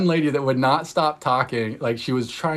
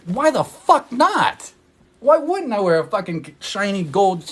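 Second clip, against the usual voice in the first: much higher, slow and drawn out; defiant outburst; 7 semitones higher, 6 dB louder, slower than usual. Real, not acted. Answering critics of her shiny gold shirt, high and drawn out. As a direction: fling the question back, daring them.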